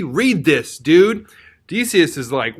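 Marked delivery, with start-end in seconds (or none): 0.0-1.3 pushy. Retold or imitated. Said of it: "Artemidorus is kind of pushy".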